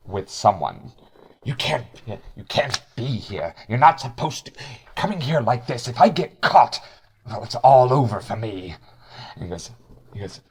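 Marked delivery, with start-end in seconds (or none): 1.4-8.8 lightly voiced raspy changeling in a heated argument; biting raspy voice. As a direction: argue with a touch of biting rasp. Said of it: "biting, raspy voice".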